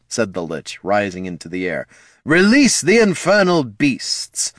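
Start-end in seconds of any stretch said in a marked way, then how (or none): 2.2-4.5 loud, slow, high battle command; commanding shout. Acted. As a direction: bellow the order across the field. The Lich commands the army.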